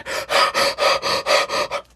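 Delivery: quick, deep panting breaths; rapid gasping breaths. Shown as a demonstration. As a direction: pant in and out fast. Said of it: "So just".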